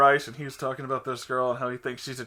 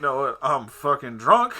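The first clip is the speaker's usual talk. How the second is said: laughing; 5 dB louder, slower than usual. Retold or imitated. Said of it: "and he goes".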